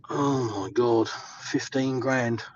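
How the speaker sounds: slow, drawn-out stunned gasp at the bill; stunned disbelief. Retold or imitated. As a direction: let the shock sink in slowly, retelling it. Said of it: "And I went".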